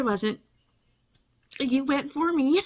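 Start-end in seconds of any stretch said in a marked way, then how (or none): 1.6-2.6 touched and starting to cry; choking up with gratitude; tearfully moved. Real, not acted. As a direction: voice lifting as tears well up. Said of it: "I don't know why I'm crying".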